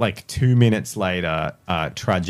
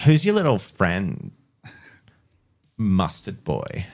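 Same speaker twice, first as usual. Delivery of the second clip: woman's voice. Acted. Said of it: "you do your girl voice".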